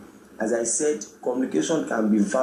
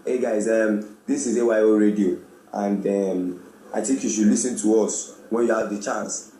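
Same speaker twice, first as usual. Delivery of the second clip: dull host. Shown as a demonstration. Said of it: "But by the time I come and I'm like".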